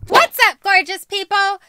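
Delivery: loud, high, bubbly channel greeting; energetic YouTuber intro; vlog intro. Shown as a demonstration. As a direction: hype up the viewers. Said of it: "Hold on".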